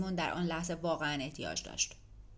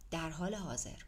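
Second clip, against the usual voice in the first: softer, repeating "در حال حاضر" to himself, falling; quiet bitter echo; 6 dB quieter than usual. A narrator's reading. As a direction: murmur "در حال حاضر" back, deflated. Echoing the message to himself.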